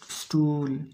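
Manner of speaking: "स्टूल" with a lengthened oo; long ऊ sound. Shown as a demonstration. Teacher closing the list, long ऊ in "स्टूल". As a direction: draw out the vowel in "स्टूल". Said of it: "ये सारे के सारे ऊ sound हैं".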